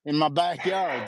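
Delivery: slow loud comic yell; mock shout. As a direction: bark it like a grumpy homeowner. Mock angry homeowner.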